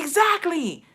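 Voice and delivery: high, drawn-out vindicated exclamation; retold emphatic agreement. Daughter agreeing with dad on the phone, emphatically vindicated.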